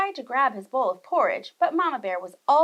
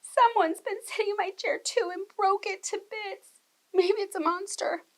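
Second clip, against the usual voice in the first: little bear; 9 semitones higher than usual. A narrator's reading. Little Wee Bear finds broken chair.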